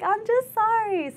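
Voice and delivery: put-on high, slow whimpering girl voice; buddy sobbing an apology, high and drawn out; mock teary apology. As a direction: imitate a crying recruit, stretched out. Crying buddy imitated.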